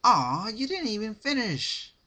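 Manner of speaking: high loud mock pout; chirpy Pinkie. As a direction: tease her fallen friend. Pinkie over fallen friend.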